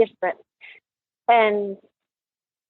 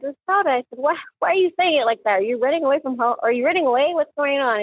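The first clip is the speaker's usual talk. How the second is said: teasing joke; 5 semitones higher than usual. Retold or imitated. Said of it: "And I joked with her".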